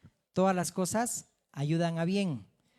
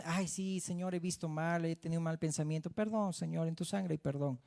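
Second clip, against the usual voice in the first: softer, casual throwaway prayer; offhand quick prayer; 6 dB quieter than usual. Retold or imitated. Preacher mocks a careless believer's softer, offhand prayer. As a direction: mumble a careless apology to God. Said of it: "O solamente dices".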